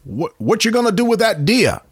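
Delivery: high, folksy Maine voice; Maine accent. Retold or imitated. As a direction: play it like a cheerful Down East local. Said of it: "Tim said".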